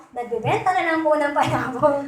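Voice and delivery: sheepish reply through a laugh; half-laughing admission; chuckling as the ex-gambler; laughing confession. Retold or imitated. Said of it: "Sabi niya".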